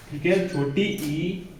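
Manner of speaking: drawn out, searching for the words; slowly, unsure, before correcting yourself; stretched out false start; slow, hesitant first try. Shown as a demonstration. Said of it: "sorry".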